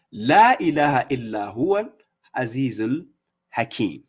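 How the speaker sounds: measured Arabic recitation, slowing on each phrase; Quran recitation. Shown as a demonstration. Preacher recites the verse so listeners hear it clearly, measured recitation. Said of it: "Let me read it in Arabic so people can hear it".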